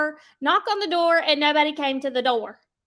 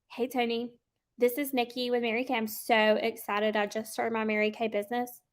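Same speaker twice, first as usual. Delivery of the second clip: unsmiling; 3 semitones lower, 5 dB quieter than usual. Shown as a demonstration. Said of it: "Like, y'all smile".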